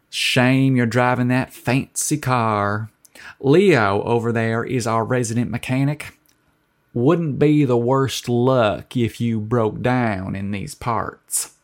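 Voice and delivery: a lightly voiced salty diner waitress, teasing. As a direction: tease him gently, like a sly small-town waitress.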